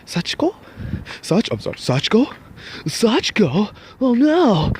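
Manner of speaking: high, worried calling of the name; imitating the boyfriend's frantic high-pitched cries; panicked calling. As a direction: call her name in rising alarm. Boyfriend calling passed-out girlfriend.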